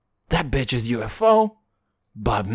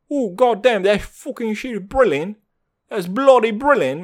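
lively hammed-up British accent, higher pitched; British accent, pitched up and animated; English accent; 5 semitones higher, 3 dB louder than usual. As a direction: do your best over-the-top English accent. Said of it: "that's my best English accent".

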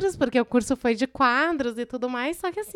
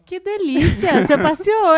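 sarcastic; 5 semitones higher, 8 dB louder than usual. Real, not acted. Ironic reply to the robbery.

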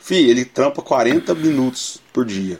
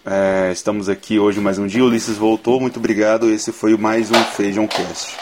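podcast host outro; 2 semitones lower than usual. Pretend. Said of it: "eu vou fazendo aqui o Feijão Cast".

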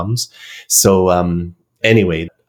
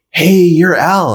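imitating eager recognition; 11 semitones higher, 5 dB louder, slower than usual. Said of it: "he goes".

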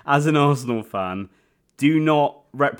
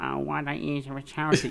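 quick, high mock posh voice; mocking quote; 4 semitones higher, 5 dB quieter, faster than usual. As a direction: sneer it like a smug do-gooder. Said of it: "And they're like".

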